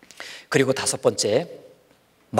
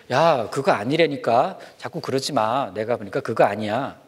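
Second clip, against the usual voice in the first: gently. Acted. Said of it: "이렇게 부드럽게 말해도 되는데".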